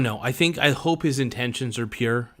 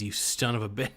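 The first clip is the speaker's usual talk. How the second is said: ordinary talk, nothing marked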